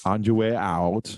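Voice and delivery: put-on slow, lightly accented action-hero line; measured mock Austrian delivery; Arnold impression. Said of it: "Yeah, when he says that".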